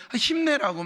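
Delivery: mock nagging push to cheer up; pushy cheering. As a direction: shove the encouragement at them. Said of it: "막 자꾸 강요하는 것처럼".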